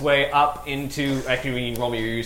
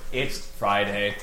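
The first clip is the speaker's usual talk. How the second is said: slow, flat robot voice singing a song; 3 semitones lower, 4 dB quieter, much slower than usual. Retold or imitated. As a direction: imitate a droid singing slowly. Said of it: "in a Warforged robot voice".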